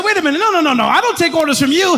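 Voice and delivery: defiant. Retold or imitated. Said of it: "I said".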